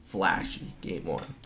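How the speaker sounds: breathless, fading drawn-out words; winded after a frantic call; out of breath. Real, not acted. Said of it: "And I'm out of breath".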